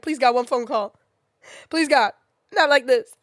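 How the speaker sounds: hammed-up dying-of-laughter plea; cry-laughing plea. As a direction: plead for mercy through laughter. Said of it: "cry laughing".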